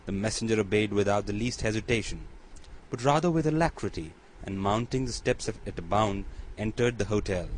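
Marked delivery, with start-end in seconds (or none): none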